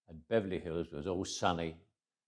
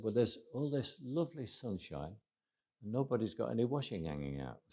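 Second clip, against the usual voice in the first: higher, softer imitated North Country accent; 4 semitones higher, 4 dB quieter than usual. Friend's mum puzzled by no washing out, in North Country accent. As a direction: lightly mimic a Northern English mum's accent. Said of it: "North Country accent like that".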